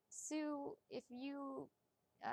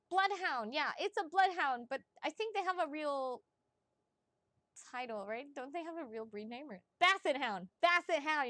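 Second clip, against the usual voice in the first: excited recall; 2 semitones higher, 6 dB louder than usual. Real, not acted. Remembering the dog breed, excited.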